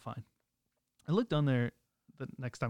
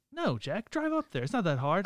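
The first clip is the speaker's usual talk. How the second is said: imitating team director; 6 semitones higher, 4 dB louder than usual. Quoting the female team director.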